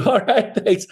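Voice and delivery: high, breezy mock brush-off; imitating unfazed agent. Agent answering an insult on a call, unfazed. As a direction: imitate an agent cheerfully shrugging off abuse. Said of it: "doesn't even faze him".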